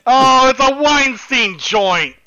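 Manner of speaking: mock excitement. Mocking exclamation about studio.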